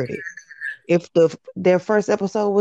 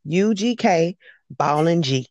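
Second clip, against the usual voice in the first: "U G K" with each letter held a little; held Southern drawl; 3 semitones lower, slower than usual. Shown as a demonstration. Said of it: "you got to hold that thing".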